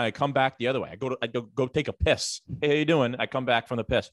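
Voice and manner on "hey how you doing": higher-pitched canned greeting; NPC greeting. Retold or imitated. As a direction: mimic a coworker's identical hello on every pass. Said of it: "she is truly, like, Skyrim".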